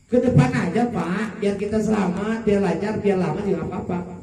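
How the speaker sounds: acted wife pressing her case; wife's insistence. Wife urging the safer road.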